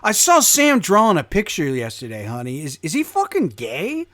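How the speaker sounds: lightly voiced worried parent; a hint of a gossiping parent. Voicing parent to spouse.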